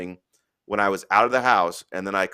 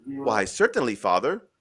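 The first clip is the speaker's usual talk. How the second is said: lightly done Irish widow; Irish accent. Acted. Widow answers the priest, mild Irish accent. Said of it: "do my best Irish accent".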